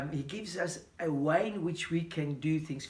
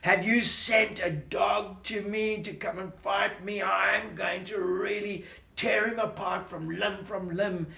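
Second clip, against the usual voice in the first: mocking; 3 semitones higher, 4 dB louder than usual. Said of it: "Goliath is mocking him".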